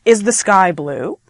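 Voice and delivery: slow question with BLUE rising; asking, rising inflection. Shown as a demonstration. Teacher asking when unsure of the answer, rising on BLUE. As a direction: lift BLUE at the end as a question. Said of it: "so I'm asking you".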